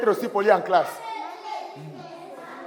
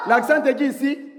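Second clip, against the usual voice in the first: high, called-out pointer; 5 semitones higher than usual. Real, not acted. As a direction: call it out to the class. Teacher calls out to class.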